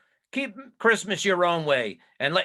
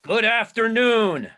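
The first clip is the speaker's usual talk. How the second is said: curt dismissal; 7 semitones higher, 5 dB louder than usual. Acted. Scrooge dismisses nephew again, impatient.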